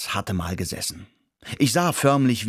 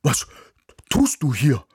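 barking dog voice; 4 semitones higher, 4 dB louder than usual. Acted. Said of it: "bellte Izmir mich an".

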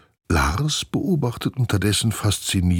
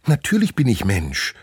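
higher, eager insistence on Natürlich; excited glider squirrel; 4 semitones higher than usual. Acted. Glider squirrel excitedly insists it is human. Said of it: "sagt das Gleithörnchen aufgeregt".

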